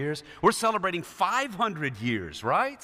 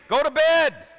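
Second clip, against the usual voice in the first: higher, louder stern call; father calling out; 8 semitones higher, 6 dB louder than usual. Retold or imitated. A hint of a stern father sending his son to bed. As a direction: call it through the house like a dad. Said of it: "he'd hear us".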